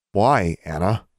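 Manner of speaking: voice close to breaking. A narrator's reading. Alexandra confronts her roommate over the betrayal, voice near breaking. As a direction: press the question, a touch of heartbreak. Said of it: "Her voice was close to breaking".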